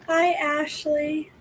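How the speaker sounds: drawn-out greeting with a crack mid-way. Real, not acted. Greeting Ashley on the stream, voice cracking. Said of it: "I think my voice cracked".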